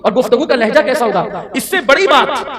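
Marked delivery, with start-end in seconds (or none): 1.5-2.5 ringing emphasis on the first اس سے بڑی بات; emphatic first take. Acted. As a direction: raise it up to grab the hall. Preacher repeats phrase for effect.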